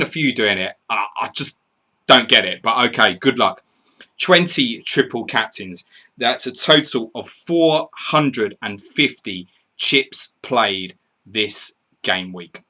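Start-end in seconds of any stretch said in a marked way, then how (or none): 4.2-12.6 slow, weighty tally announcement; emphatic read-out slowing to the end; announcer's stats update. Acted. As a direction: spell out the total, phrase by phrase. Announces official chip statistics.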